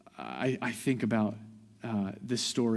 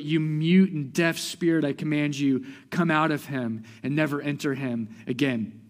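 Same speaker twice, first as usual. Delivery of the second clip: rebuke; 4 semitones higher, 5 dB louder than usual. Retold or imitated. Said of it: "He rebuked the unclean spirit".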